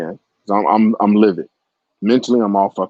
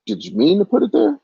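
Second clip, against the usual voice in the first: gentlemanly ask; 11 semitones higher than usual. Retold or imitated. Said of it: "and I say".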